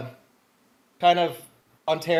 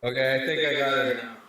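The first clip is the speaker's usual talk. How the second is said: processed voice through voice changer. Real, not acted. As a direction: voice changer still on. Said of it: "Did you turn off the voice changer?".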